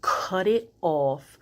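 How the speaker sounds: stern, slow mom voice talking down her own brain; firm like a mother laying down the law. Retold or imitated. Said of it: "I had to use my mom voice".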